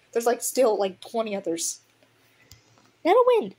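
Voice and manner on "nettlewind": high, loud call of his name. Acted. She calls loudly to her mate returning to camp. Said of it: "she called".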